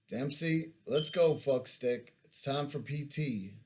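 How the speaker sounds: a loose, matter-of-fact Virginian drawl, called out; a Virginia bunkmate waking you up, lightly voiced Virginian; a hint of a Virginian drawl yell. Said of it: "Jason yelled matter-of-factly in his thick Virginian drawl".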